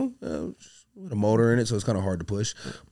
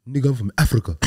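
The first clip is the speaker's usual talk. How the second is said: mock quote; 2 semitones higher, 4 dB louder than usual. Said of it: "where did he say he was from".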